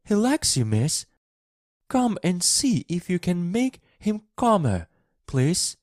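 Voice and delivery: high, urgent plea; Martha crying out. A narrator's reading. Maid asks girl to calm the boy, pleading. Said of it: "she cried".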